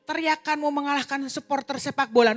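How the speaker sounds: high, loud retold outburst; loud exclaiming. Father astonished by his daughter's screams, loud exclaiming. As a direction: exclaim over the racket.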